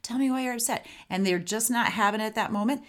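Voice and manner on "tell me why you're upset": curious calm. Shown as a demonstration. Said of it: "That's the way you're saying".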